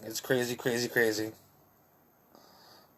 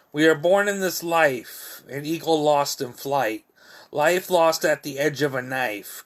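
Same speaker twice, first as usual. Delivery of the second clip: poetry reading; 3 semitones higher than usual. Acted. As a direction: recite it in rhythmic, falling phrases. Reads own poem aloud.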